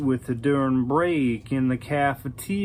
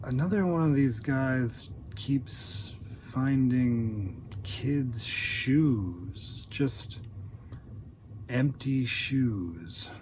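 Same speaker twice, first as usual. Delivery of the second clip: flat monotone whisper; 2 semitones lower, 5 dB quieter, slower than usual. Retold or imitated. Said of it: "in that same tone".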